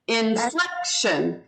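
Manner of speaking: slow, careful INFLECTION, accent on FLEC; stress on second syllable. Shown as a demonstration. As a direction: model INFLECTION slowly, hitting its middle syllable. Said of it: "the second syllable gets the accent".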